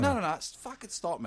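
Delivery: high-pitched, urgent protest at no great volume; retold shout. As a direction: act out yelling without really yelling. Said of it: "I, I'm shouting".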